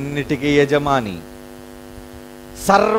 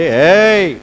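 rebuking shout; 5 dB louder, much slower than usual. Retold or imitated. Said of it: "అరిచాడు".

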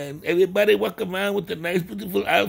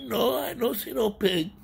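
softer repeat of the denial; quiet repeat; 3 semitones higher, 5 dB quieter than usual. Acted. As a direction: say it again under the breath. Correcting himself, repeated line.

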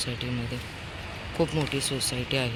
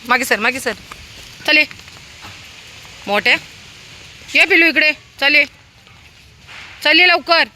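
loud high calls to dogs; calling the puppy over, loud high call; 12 semitones higher, 9 dB louder than usual. Real, not acted.

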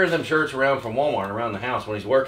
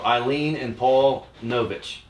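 slow careful name reading; much slower than usual. Real, not acted. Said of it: "N O V I C H".

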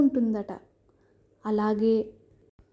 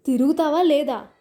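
a louder, higher sharp demand; changed voice; 4 semitones higher, 5 dB louder than usual. A narrator's reading. Husband orders his wife to turn, louder and sharper. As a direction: demand it, patience gone. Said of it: "అతడి స్వరం మారింది".

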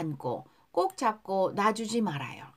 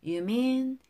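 pronunciation model. Shown as a demonstration. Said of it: "따라하세요". (따라 읽도록 천천히 또박또박)

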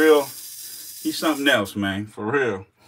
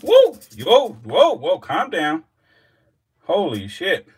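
much higher, louder whoop then whoas; startled whoop; 8 semitones higher, 7 dB louder, slower than usual. Real, not acted. Vlogger whoops as the Gaboon lunges, startled. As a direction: jump back and yelp at the strike. Snake strikes again.

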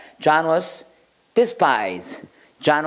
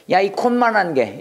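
higher-pitched belittling taunt; acted scorn; 5 semitones higher than usual. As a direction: look down on a tiny nobody. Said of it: "하고 멸시하는 거예요". (얕잡아 보며 멸시하는 투)

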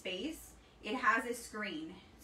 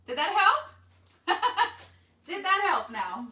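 loud, higher, breaking into laughter; laughing question; 8 semitones higher, 9 dB louder, slower than usual. Real, not acted. Crafter asking viewers if that helped, laughing. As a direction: ask it through a real laugh. Teases viewers after showing both options.

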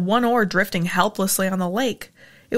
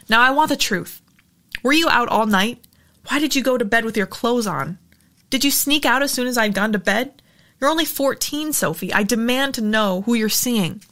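stern demand. Acted. Mother interrogates daughter sternly.

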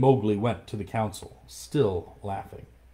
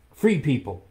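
higher and louder call to the pack; crying out; 5 semitones higher, 5 dB louder than usual. Acted. Mowgli calls out to the wolf pack, loud and high. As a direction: call the wolves to attention. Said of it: "he cried".

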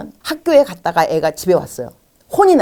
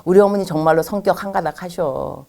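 grateful husband. Retold or imitated. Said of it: "그럼 이렇게 말씀하셔야죠".

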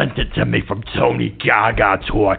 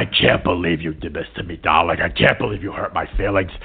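fast whine; 5 semitones lower, 3 dB quieter, faster than usual. Acted. Alfonso whines hurt feelings.

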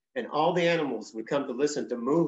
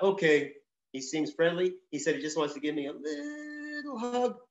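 lightly voiced songbird; 3 semitones higher than usual. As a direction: talk yourself into trusting him. Songbird's thoughts voiced again.

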